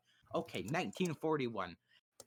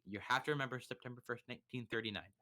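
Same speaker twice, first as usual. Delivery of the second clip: "nineteen thirty-nine" rattled off fast and a bit softer; quick quiet aside; 2 semitones lower, 3 dB quieter, faster than usual. Shown as a demonstration. Teacher repeating the date in a quick aside, fast and softer. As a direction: toss the date off in a hurry. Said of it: "That's an important date".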